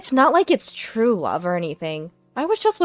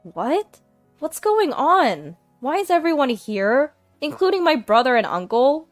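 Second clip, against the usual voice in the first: sleepy; 6 semitones higher than usual. Acted. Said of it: "sleepily asked".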